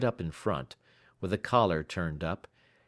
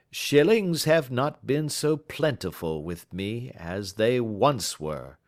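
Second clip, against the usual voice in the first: slow, a little sheepish admission; slow and halting, slightly embarrassed; slow shamefaced; 4 semitones higher, 3 dB louder, slower than usual. Acted. Baker admitting poverty to Holmes, slow and sheepish. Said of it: "gave a rather shamefaced laugh".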